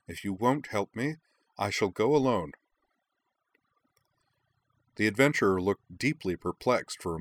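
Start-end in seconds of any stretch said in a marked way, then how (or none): 0.1-2.5 mock-mature, a touch higher; a boy playing grown-up, lightly hurt pride; wounded dignity. Prince to the adventurers, lightly voiced wounded dignity. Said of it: "exaggeratedly mature tone of wounded dignity".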